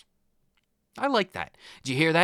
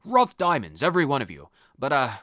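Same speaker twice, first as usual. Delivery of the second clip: lightly voiced old headmaster. Lightly voiced headmaster addressing the students about rehabilitation. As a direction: read the headmaster's lines in a light, lowered schoolmaster voice.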